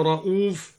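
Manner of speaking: "رؤوف" said ra'uf with a short u; shortened hamza. Shown as a demonstration. Teacher names al-Duri's reading, "رؤوف" with short u. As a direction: cut the long vowel after the hamza of "رؤوف". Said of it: "وقصر الهمزة".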